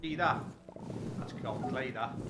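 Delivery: a bit of put-on Scouse; Scouse accent. Shown as a demonstration. Streamer shows chat a bit of Scouse, demo Scouse accent. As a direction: lightly do a Liverpool accent. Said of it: "I could do a bit of the old".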